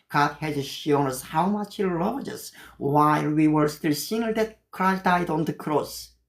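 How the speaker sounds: slow, careful English scripture; slow memorized Bible English; memorized verse recital. Shown as a demonstration. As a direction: say each word deliberately, recited from memory. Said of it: "조깅하면서 이걸 외워요".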